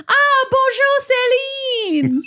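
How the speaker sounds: very high, slow sing-song bonjour called across the aisle; French teacher greeting. Retold or imitated. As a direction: stretch out bonjour, high and sung, like a delighted teacher. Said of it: "she goes".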